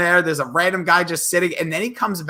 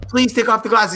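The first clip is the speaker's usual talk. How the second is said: lightly voiced wife, pitched higher; a raised, mildly urgent plea; pleading wife; 5 semitones higher than usual. Wife to husband about the glasses, lightly voiced pleading. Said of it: "his wife being like".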